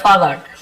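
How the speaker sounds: "forgot" with the r left out; silent r. Shown as a demonstration. Teacher repeating the corrected form, "forgot" without the r. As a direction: say "forgot" as "faw-got", no r. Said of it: "थोड़ा आर silent होता है".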